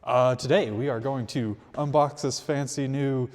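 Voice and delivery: loud announcer-style intro; booming like a showman; loud sharp voice. Real, not acted. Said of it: "Why are you yelling?".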